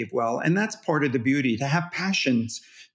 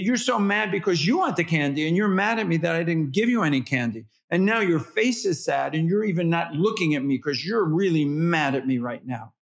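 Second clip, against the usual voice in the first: put-on a bit higher, sing-song narration of the child's feelings; toddlerese mirroring; 3 semitones higher than usual. Shown as a demonstration. Parent naming a toddler's anger in toddlerese. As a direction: keep mirroring the anger back. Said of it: "you narrate it back saying".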